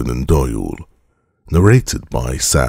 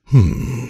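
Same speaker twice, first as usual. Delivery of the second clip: a short, higher grumbled hmm; 8 semitones higher than usual. A narrator's reading. Holmes grumbling at the introduction of Engels, a short higher hmm. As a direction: grunt it out, unimpressed. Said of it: "he grumbled".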